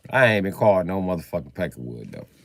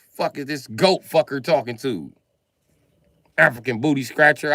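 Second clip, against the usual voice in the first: higher-pitched hammed-up insult rant; mock tirade; 7 semitones higher than usual. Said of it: "I be like".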